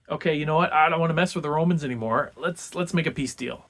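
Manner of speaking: lightly voiced king throwing up his hands; exasperated give-in. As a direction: toss it off like a king who's had enough. Porsena voiced giving up.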